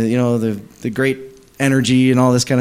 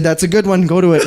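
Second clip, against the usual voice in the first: high-pitched, on the edge of laughter; real laughter bubbling into the quote; amused; 6 semitones higher, faster than usual. Real, not acted. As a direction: deliver the punchline while starting to crack up. Amused retelling breaks into laughter.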